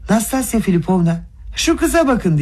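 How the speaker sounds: sharp high exclamation, pitch leaping up; outraged outcry; cry out. A narrator's reading. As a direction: call out to Nastasya Filipovna in shock. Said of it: "diye haykırdı".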